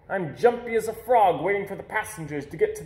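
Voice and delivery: jumpy with anticipation; excited. A narrator's reading. Boy heading to the airport to meet his sister, eager.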